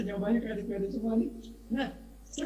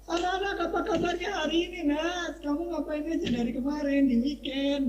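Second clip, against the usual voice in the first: lively teacher greeting; 4 semitones higher than usual. Shown as a demonstration. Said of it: "gitu ya".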